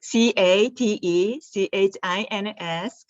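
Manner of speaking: "C A T E C H I N S" spelled letter by letter, slowly. Shown as a demonstration. Tea founder spells the word for webinar viewers, slow and deliberate. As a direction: spell out "C A T E C H I N S" one letter at a time.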